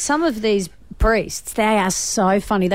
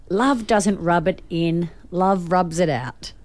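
slow, measured read-out; unhurried delivery, leaving room for the joke; deliberate sign reading; 4 semitones lower, slower than usual. Acted. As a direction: read the slogan out slowly and carefully. Reads church sign, deliberately solemn.

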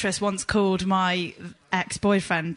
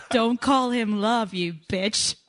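slow, drawn-out American accent attempt; slower than usual. Shown as a demonstration. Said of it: "That's close".

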